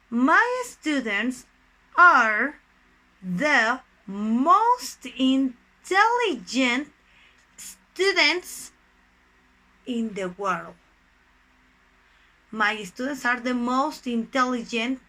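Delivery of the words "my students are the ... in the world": drawn-out words with long pauses between; slow dictation. Shown as a demonstration. Teacher builds superlative example for students, slow dictation. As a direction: dictate it piece by piece, stressing each word.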